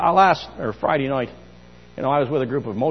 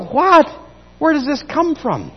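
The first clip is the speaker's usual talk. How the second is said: high, loud startled outcry; retold shock; 11 semitones higher, 5 dB louder than usual. Preacher recalling his shock at degrading lyrics. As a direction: sound genuinely scandalized.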